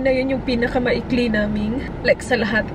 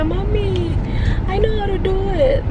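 imitating her daughter; 7 semitones higher than usual. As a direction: mimic a small girl insisting she can do it. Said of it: "Sabi niya".

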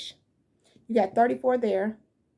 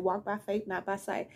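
soft inner voice; 6 dB quieter than usual. Retold or imitated. The voice she kept hearing.

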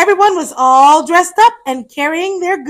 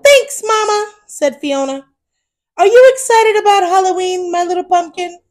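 put-on reading to children. A narrator's reading. To children, reading a Halloween picture book, lively storyteller voice. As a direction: tell it brightly to little ones.

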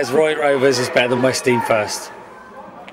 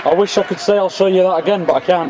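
lightly voiced northern English commentator; play-by-play in a mild northern accent; 2 semitones higher than usual. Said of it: "Gotta do the northern accent when you're commentating".

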